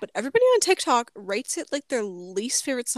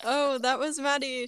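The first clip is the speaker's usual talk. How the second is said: laughing; 3 semitones higher, slower than usual. Real, not acted. Laughing after the fake goodbye.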